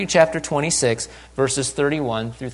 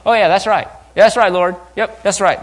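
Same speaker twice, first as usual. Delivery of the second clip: louder, higher, chiming in; eager tagalong disciples; 5 semitones higher, 6 dB louder than usual. Acted. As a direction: agree heartily like a follower sidling up. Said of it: "rest of the disciples sort of saddling up".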